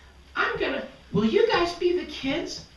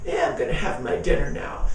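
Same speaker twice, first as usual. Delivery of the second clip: monster voice; 14 semitones lower, faster than usual. Acted. Monster voice continues.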